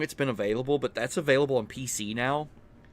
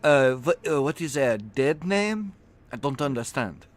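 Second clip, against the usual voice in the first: put-on stereotypical French accent; 2 semitones higher than usual. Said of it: "he's French, so I've gotta do, like, stereotypically".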